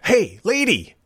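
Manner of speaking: chasing a token thief, calling her back; retold yell. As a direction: call after a woman who is walking away. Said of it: "I yelled at her".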